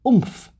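oomph, popped out high. Shown as a demonstration. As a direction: punch out oomph. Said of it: "you give the Hey".

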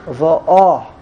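va'ah accented on the final ah; va'ah, weight falling on the closing ah; stress on last syllable. Shown as a demonstration. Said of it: "is on the last syllable".

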